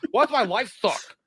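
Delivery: high-pitched imitation of a complainer; mock self-pity; mock whining. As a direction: whine it high like a clueless victim.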